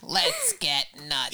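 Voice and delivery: low, slow and deliberate; slow movie-quote voice. Acted. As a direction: drag out the dare, low. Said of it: "No, like this".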